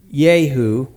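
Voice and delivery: Yehu said yay-HOO, with a Y sound for the J. Shown as a demonstration. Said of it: "I call him Yehu".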